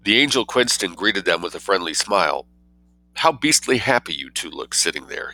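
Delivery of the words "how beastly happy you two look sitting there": wistful. Acted. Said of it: "he said wistfully".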